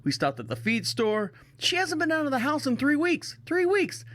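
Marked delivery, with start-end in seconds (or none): 1.6-4.1 incredulous. Real, not acted. Marveling at wife staying home.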